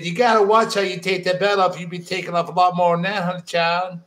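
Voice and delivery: put-on a lightly done old Southern lady; Southern accent. Reading the old lady's warning in a mild Southern accent. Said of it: "an even shittier Southern accent than you".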